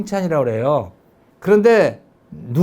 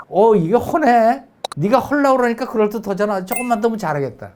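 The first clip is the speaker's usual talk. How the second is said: pleasantly surprised encouragement; delighted praise; 6 semitones higher than usual. Shown as a demonstration. Mom delighted by her child's attempt, warmly encouraging. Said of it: "이게 이해가 가는 거지".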